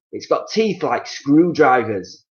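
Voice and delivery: slow, spooky husband voice; menacing Mister Twit. Acted. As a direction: draw it out to scare her. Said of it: "Mister Twit said".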